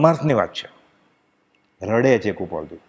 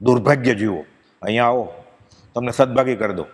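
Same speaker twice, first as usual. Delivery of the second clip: compassionate sage calling; 4 semitones lower than usual. Retold or imitated. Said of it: "જ્ઞાની આવું બોલે".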